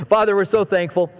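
unhurried prayer voice; a hint of prayer cadence; closing prayer. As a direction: lead the church in prayer.

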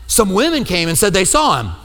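dismissive throw-in. Retold or imitated. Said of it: "That's how they throw it in".

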